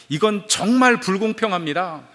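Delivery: retold outcry of injustice; indignant outcry. Damned man protesting hell's unfairness, indignant outcry. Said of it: "큰 소리로 외쳤다고".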